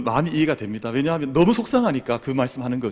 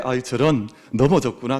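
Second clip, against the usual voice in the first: calm and gentle. Shown as a demonstration. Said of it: "평안하게 이렇게 이야기를".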